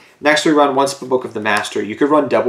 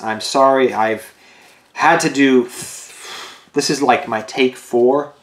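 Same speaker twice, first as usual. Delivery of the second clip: breathless and tired, gasping between words; winded, catching your breath mid-sentence; much slower than usual. Real, not acted. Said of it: "so I'm really out of breath and really tired".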